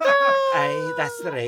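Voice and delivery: loud, high Scottish "aye"; Scottish accent. Acted. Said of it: "Can you do a Scottish accent?".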